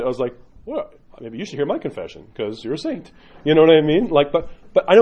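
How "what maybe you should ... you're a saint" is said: mock disbelief. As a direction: play up astonishment at a self-declared saint. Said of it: "I literally lost it".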